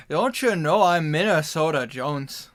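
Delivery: slow, loud, hammed-up Minnesota accent. Minnesotan jokes as Minnesota Jones, hammed-up Minnesota accent. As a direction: stretch it out in a thick Minnesota accent. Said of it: "considering I'm Minnesotan".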